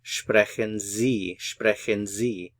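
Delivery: "Sprechen Sie" said slowly, each syllable clear; slow it right down for learners to repeat; slow model phrase. Shown as a demonstration. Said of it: "you would say".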